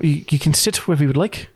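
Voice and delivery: put-on unsure, vaguely Southern-ish accent; hesitant character accent. Miss Gypsum offering guests a seat, tentative Southern-ish accent. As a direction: feel around for a half-remembered Southern accent. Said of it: "What was her accent?".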